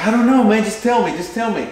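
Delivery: impatient shooter wanting his time; eager. Retold or imitated. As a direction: beg to hear the result. Acting eager shooter begging result.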